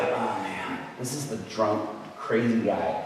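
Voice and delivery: low, soft, reluctant aside; retold inner groan, quiet and low; dismayed. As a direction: sink with dread, as if to yourself. Retold reluctance to pray for heckler.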